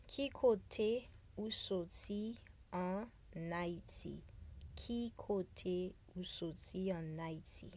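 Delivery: very slow, each word set apart. Shown as a demonstration. Teacher models the question for repeating, slowly. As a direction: stretch it out syllable by syllable. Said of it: "This one I have to probably say, uh, slower".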